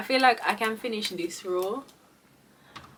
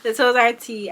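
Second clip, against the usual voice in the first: sassy repeat; 2 semitones higher, 6 dB louder than usual. Real, not acted. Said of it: "Clock it".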